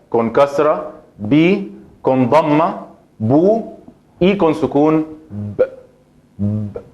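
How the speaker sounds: bi, bu, then a bare stopped b; vowel drill. Shown as a demonstration. Teacher drills the vowel marks for students. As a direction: run through each vowel on B. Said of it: "con fatha".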